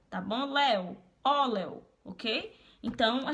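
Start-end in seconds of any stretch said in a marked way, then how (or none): 0.5-1.8 "Leo, óleo" said slowly as syllable then word; slow syllable demo. Shown as a demonstration. Teacher showing the diphthong to Denis, slow and drawn out. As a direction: draw out "Leo, óleo" to show the split. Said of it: "Fica O separado, Leo".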